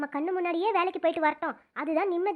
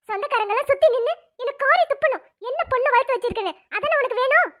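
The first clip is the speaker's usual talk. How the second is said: angry mother; 4 semitones higher than usual. Acted. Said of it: "angry மோடுக்கு வந்துட்டாங்க".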